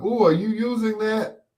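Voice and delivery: high, eager ask; eager kid. Retold or imitated. Young speaker eyeing a neighbour's electronics, high and eager. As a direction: ooh it like a greedy kid. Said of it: "I'm like".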